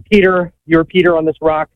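breathless from working; winded while talking; out of breath. Real, not acted. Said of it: "Sorry, I'm out of breath".

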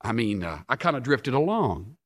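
mildly uneasy, hesitant admission; uncomfortable. Acted. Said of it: "Porter, uncomfortably".

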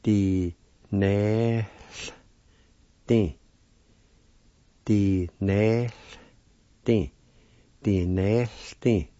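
Di-ne-th-tin said slowly with a sounded HL and the O silent; slow careful pronunciation. Shown as a demonstration. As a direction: stretch the word so learners hear each sound. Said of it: "like this".

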